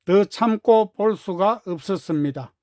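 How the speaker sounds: ordinary delivery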